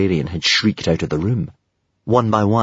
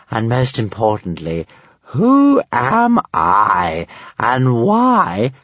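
confused dragon, questions growing more alarmed; mounting horror; 5 semitones higher than usual. A narrator's reading. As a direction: let a touch of horror creep in. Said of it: "asked Stormfly with mounting horror".

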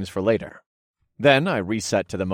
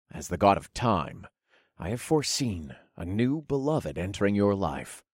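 gentle reassurance; 3 dB quieter than usual. Acted. God consoles widow.

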